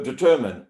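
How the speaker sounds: "determine" said as de-ter-min with a weak uh vowel; determine with neutral vowels. Shown as a demonstration. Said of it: "All those sounds are neutral vowel sounds".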